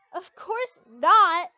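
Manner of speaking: loud, slow forced laughing denial; nervous laugh. A narrator's reading. Lucy hiding hurt from Levy with a loud forced laugh. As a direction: fake it with a big nervous laugh. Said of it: "I laughed nervously".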